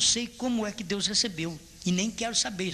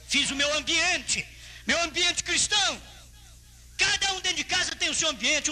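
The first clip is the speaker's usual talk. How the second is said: raised, emphatic declaration from the pulpit; preaching; 8 semitones higher than usual. Real, not acted. Preacher telling church about his Christian environment, emphatic preaching. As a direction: proclaim it with a high, driving voice.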